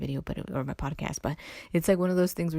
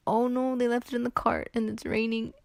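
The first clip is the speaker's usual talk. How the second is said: mock dismay; 7 semitones higher than usual. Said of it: "And I was so sad".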